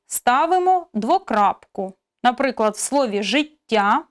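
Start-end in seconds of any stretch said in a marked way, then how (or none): 3.2-4.0 життя with a lengthened soft тт; teacher demonstrating lengthened т in життя; long soft t. Shown as a demonstration. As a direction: stretch the soft т in життя before а. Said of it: "після літери «Т» ми поставимо риску".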